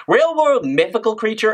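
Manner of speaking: incredulous question. Real, not acted. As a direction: repeat "Real-world mythical creature?" as if it sounds absurd. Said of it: "It's weird to say something like that".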